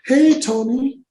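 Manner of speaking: very high falsetto woman on the phone; singsong high-pitched female caller; sweet-talking studio boss. Retold or imitated. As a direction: impersonate a woman calling with breezy small talk. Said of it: "she was the first call I got".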